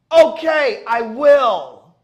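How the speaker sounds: high, loud squeaked surrender; squeaky meek reply. Retold or imitated. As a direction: squeak a terrified yes. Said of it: "stop saying it".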